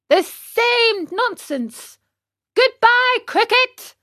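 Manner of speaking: high, scornful puppet brush-off; dismissive. Acted. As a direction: wave him off with scorn.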